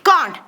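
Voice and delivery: Can't said as one syllable, the t clipped; pronounce can't. Shown as a demonstration. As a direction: say Can't in a single beat, not cannot. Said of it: "എന്താ പ്ര-, pronounce ചെയ്യുക?". (Can't ഒറ്റ അക്ഷരമായി പറയുക)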